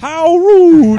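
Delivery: Stephanie Tanner. Retold or imitated. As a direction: sass it like a sitcom kid. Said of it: "That's Stephanie Tanner".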